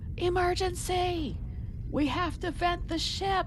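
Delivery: alarmed full-voice, top-of-lungs yell, pitched way up. Player's character in a role-play game alerts the ship, yelling at the top of lungs. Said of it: "I yell at the top of my lungs".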